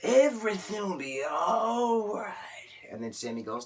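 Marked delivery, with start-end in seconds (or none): 0.0-2.3 high, breathy whisper of reassurance; hushed soothing whisper to a friend; whispered comfort. Retold or imitated. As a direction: whisper it like a hug. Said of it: "he says".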